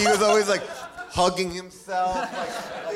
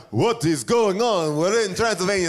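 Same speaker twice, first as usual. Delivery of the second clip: mock movie actor. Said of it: "That was pretty good".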